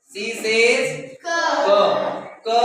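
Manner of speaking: "ko" as the short hard k sound of C; slow drawn-out "C says", then a crisp "ko"; phonics sound. Shown as a demonstration. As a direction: teach C as "ko", the sound instead of the name. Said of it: "the sounds of the letter".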